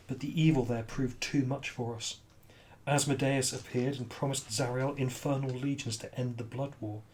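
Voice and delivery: Lulu, solemn recollection. Acted. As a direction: recount the past in a subdued voice. Game master voices Lulu's account.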